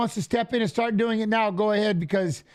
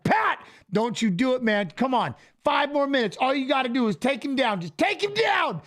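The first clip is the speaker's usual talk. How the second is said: rising, higher urging shout, climbing in pitch; corner yell; 4 semitones higher than usual. Retold or imitated. Cornerman urging Pat through the last minutes, rising shout.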